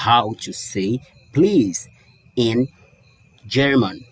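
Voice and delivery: slow, linked English phrase; smooth slow sentence. Shown as a demonstration. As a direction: glide through it without stopping. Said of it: "eu levo direto".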